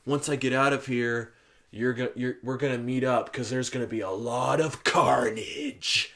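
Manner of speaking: drawn-out creepy killer quote; creepy murderer. Retold or imitated. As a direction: deliver it like a creepy convict, slowing on the last words. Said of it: "it hits him being creepy".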